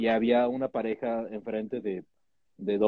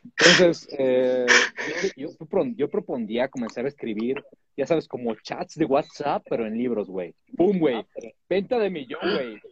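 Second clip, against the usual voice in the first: fresa voice; 3 semitones higher than usual. Acted. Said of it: "Por qué sigo hablando como fresa".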